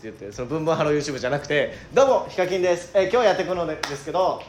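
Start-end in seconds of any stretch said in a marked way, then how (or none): 1.9-4.4 lightly voiced YouTuber greeting, a bit higher and louder; perky mock video intro, lightly imitated; Hikakin. Shown as a demonstration. Partner showing which greeting he wants imitated, light YouTuber voice. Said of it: "っていう 感じのやつ。".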